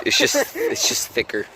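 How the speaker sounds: very high, loud squeal. Pretend. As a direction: squeal it excitedly.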